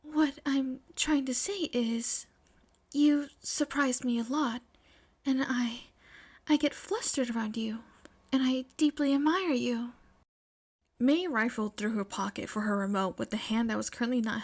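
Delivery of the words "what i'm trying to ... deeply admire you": voice slightly shaking. Acted. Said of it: "with a voice slightly shaking".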